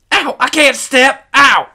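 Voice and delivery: put-on very high, loud boy's wail; pained wail. A narrator's reading. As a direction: cry out hurt and frightened. Injured boy cannot walk.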